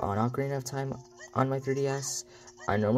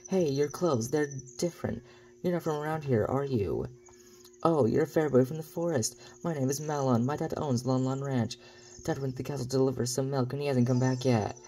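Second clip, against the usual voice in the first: slightly higher, lightly acted girl of the ranch; lightly voiced game character; 4 semitones higher than usual. Ranch girl greeting the boy from the forest, lightly acted. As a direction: read it as friendly game dialogue, lightly acted. Reads Malon's game dialogue aloud.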